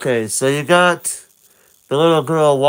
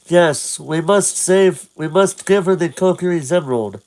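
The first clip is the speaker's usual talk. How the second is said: lightly voiced fairy; a hint of a helpful fairy guide; Navi; 4 semitones higher than usual. Navi answers Link, lightly voiced fairy. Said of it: "and Navi says, responds".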